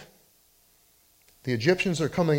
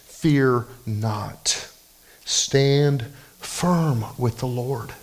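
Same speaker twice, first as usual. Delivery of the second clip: slow, steady reassurance; reassuring; 3 semitones lower, much slower than usual. Acted. Preacher gently speaking Moses' words over a struggling listener. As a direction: let each word settle on the hurting listener. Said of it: "maybe you need to hear those words".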